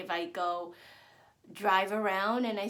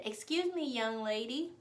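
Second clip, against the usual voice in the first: lightly mimicked man, pitched up; higher put-on "excuse me" to get attention; imitated stranger; 3 semitones higher than usual. Imitates stranger addressing her.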